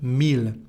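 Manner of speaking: "mille" with a sounded L at the end; exception with L. Shown as a demonstration. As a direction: say "mille" as "meel". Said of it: "we have some exceptions".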